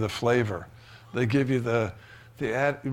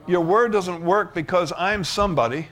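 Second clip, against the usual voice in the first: a touch louder, earnest prayer; model prayer; 3 semitones higher, 4 dB louder than usual. Acted. Preacher modelling a prayer for the congregation, earnest. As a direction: pray it out boldly. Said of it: "Just say".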